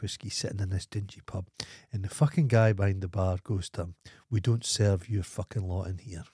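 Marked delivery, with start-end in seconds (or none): none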